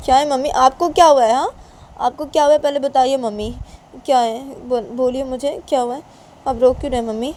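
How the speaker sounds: high, loud, urgent questioning; worried girl pleading for an answer; concerned daughter. Acted. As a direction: ask your crying mother urgently, pitch climbing.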